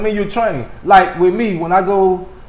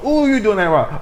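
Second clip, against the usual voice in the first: higher-pitched playful wince; mock cringe; 4 semitones higher than usual. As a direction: act out catching someone's mistake. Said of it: "Do you cringe like".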